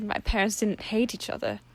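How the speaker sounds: a touch of a daughter voice. Acted. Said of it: "Octavia said".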